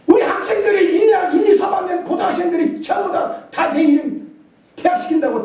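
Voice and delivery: indignant exclamation. Real, not acted. Recalling public shame, exclaiming.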